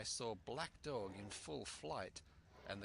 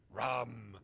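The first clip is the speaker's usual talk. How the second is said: shaken demand; 7 dB louder than usual. Acted. Captain demands rum again.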